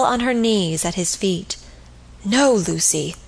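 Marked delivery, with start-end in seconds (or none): 2.2-3.2 vehement cry. A narrator's reading. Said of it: "he cried vehemently".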